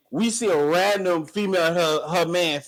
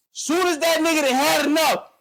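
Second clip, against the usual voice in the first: heated, laughing rant; 9 semitones higher than usual. Real, not acted. Indignant rant peaks with laugh.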